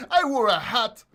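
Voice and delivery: exasperated. Real, not acted. Exasperated about wasted effort.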